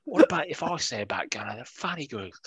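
lightly put-on Cockney voice; a hint of Cockney, half-hearted; Cockney accent. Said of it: "That was me trying to do a Cockney accent".

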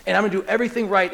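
acted earnest vow, a touch of desperation; mildly desperate, hurried resolve; desperate earnestness. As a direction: pile up the promises, picking up speed. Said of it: "so this desperation".

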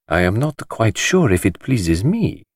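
slow, measured reply; slowly. Acted. The detective answering the host, slow and doubtful. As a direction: weigh each word before saying it. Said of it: "said Poirot slowly".

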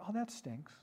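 imitating a kid's gentle commiseration; hushed little aside of sympathy; soft sympathy. Kid-like Jesus sympathising with her.

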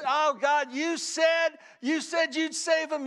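a retold desperate prayer, loud and high; crying out to God. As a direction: call out to God as if holding Him to a promise. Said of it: "she got crazy about calling out to God".

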